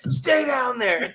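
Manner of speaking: slow laughing mock command. Friend joking to the dead man, laughing. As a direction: tell the corpse to stay down, cracking up.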